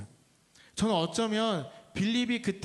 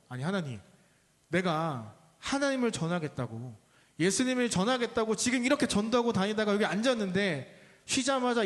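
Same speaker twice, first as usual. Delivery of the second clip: mock-indignant protest to God, half-acted; complaining to God after being soaked, mildly fuming; 2 semitones higher than usual. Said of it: "막 씩씩거리고 있다가".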